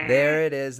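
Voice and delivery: high and loud witch voice. Pretend. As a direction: croak it out like a hag. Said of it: "There's that witch laugh".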